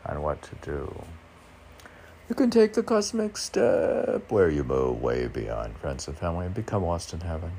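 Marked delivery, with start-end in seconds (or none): 2.3-7.5 poem reading. Shown as a demonstration. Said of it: "I'm reading the advice from my own poetry".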